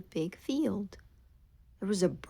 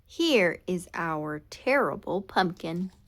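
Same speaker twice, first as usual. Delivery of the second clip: calling out. Acted. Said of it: "called out".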